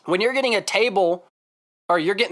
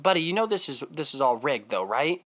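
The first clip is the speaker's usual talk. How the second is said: kindly. Retold or imitated. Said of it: "turn to the guy so kindly".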